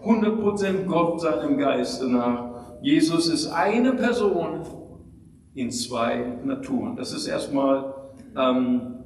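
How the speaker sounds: usual speaking voice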